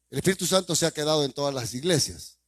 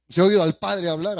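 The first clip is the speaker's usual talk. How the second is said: loud challenge; 4 semitones higher, 7 dB louder than usual. Real, not acted. Preacher loudly challenging his congregation, pressing demand. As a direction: raise the question, pressing hard and loud.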